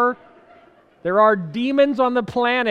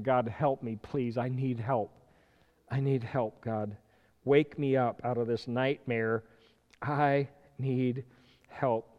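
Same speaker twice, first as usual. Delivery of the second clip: pleading prayer; 5 semitones lower, 7 dB quieter than usual. Pretend. Preacher voicing his own prayer.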